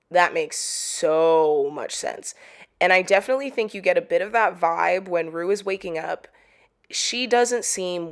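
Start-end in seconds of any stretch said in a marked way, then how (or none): 0.1-2.3 slow emphatic repeat. Shown as a demonstration. Reacting to the fan theory, slow and emphatic. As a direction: drag it out slowly, each word weighed.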